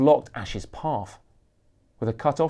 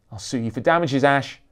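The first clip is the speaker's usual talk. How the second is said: mild shout, a touch louder; 2 semitones higher, 5 dB louder than usual. Acted. Photographer threatening the rock star, mild shout. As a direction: threaten him across the crowd. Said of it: "Gonzo shouted".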